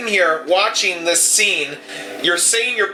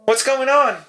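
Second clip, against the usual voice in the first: higher-pitched, confused nurse; bewildered nurse coming to; 5 semitones higher than usual. Acted. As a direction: ask in bewilderment as you come round. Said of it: "she says".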